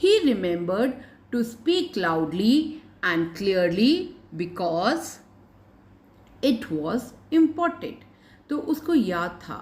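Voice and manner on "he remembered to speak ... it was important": put-on very slow, measured reading for young learners; story read-aloud. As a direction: read it out phrase by phrase, slowly. Reads story aloud to pupils. (बच्चों के लिए धीरे-धीरे कहानी पढ़ना)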